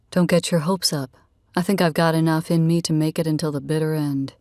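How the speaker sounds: lightly voiced man, playfully confident; a hint of a teasing male character; teasing Rad. Man answering her challenge on their walk, lightly voiced, teasing.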